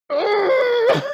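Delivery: high, loud exasperated yell; fed-up screech at a cheesy movie; exasperated shriek. Real, not acted. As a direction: let out a shrill scream of frustration at the screen.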